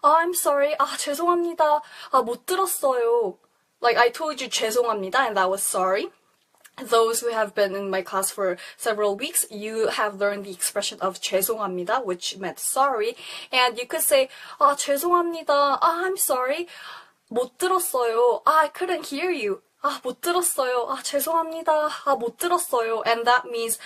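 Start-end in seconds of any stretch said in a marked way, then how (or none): 0.0-3.4 apologetic with a sighing "아"; sorry you missed what they said, said a little sadly; a bit more sad. Shown as a demonstration. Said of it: "bit more sad". 14.6-23.0 apologetic with a sighing "아"; sorry you missed what they said, said a little sadly; a bit more sad. Shown as a demonstration. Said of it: "bit more sad".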